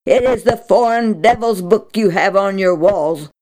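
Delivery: the priest turning her away, a touch angry. Acted. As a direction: scold her for the foreign book. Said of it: "he stopped her angrily".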